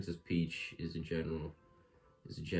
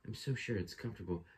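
light Peach voice; 3 dB quieter, faster than usual. Acted. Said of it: "I have to do Peach voice".

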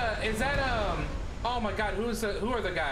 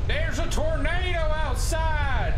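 panicked shout; 8 semitones higher, 8 dB louder, slower than usual. Real, not acted.

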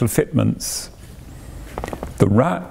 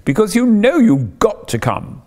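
imploring Toad. Acted. Toad begging Ratty to join the trip, imploring. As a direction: coax stubborn Ratty to come along. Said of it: "said Toad imploringly".

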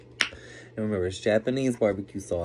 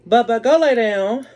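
high loud call-out; raised voice, sending pet away; 11 semitones higher, 10 dB louder, slower than usual. Real, not acted. Telling pet to go lay down.

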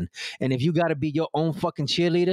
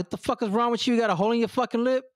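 high, exaggerated disbelief at a friend; retelling a jab, high and fast at the end; mock shocked outburst; 10 semitones higher, faster than usual. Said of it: "And I'm like".

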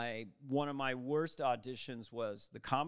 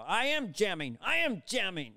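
acted jamming line; 4 semitones higher, 3 dB louder than usual. His helicopter line, acted.

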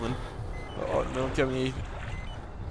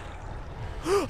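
frightened gasp; 13 semitones higher, 9 dB quieter than usual. Real, not acted. Hears the noise again.

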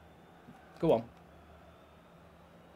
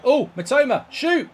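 urgent rising yell; will the striker to shoot; excited shout; 7 semitones higher, 5 dB louder than usual. Real, not acted. Gamer yelling at Mitoma to shoot, excited.

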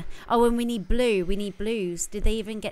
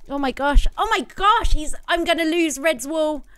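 high panicky gasps while fleeing; rattled and rushing, under pressure; being chased; 5 semitones higher than usual. Real, not acted. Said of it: "I think I'm being chased at the moment".

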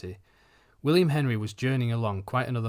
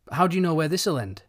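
anxious wife; 6 semitones higher, 5 dB louder than usual. A narrator's reading. Worried wife to Matthew.

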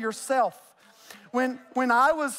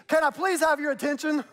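teacher voice; 4 semitones higher than usual. Retold or imitated. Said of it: "for all of you teachers".

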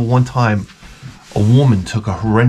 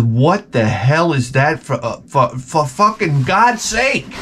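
disgusted; slower than usual. Retold or imitated. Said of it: "I said".

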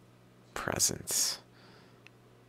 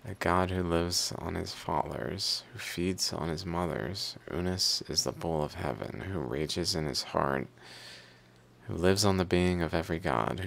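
even, measured reading of a hymn; reading aloud; 3 semitones higher than usual. Acted. Reader reciting the hymn of Unis eating gods, reading aloud. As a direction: recite it line by line from the page.

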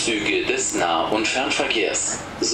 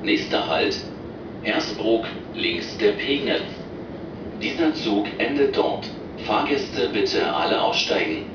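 over the intercom. Real, not acted. Recorded train stop announcements.

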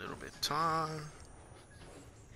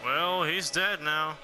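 excited; 4 semitones higher than usual. Real, not acted. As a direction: gloat that you called it. Reacting to death.

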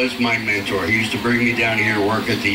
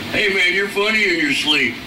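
guys in jail; 6 semitones higher than usual. Acted. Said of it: "They're going".

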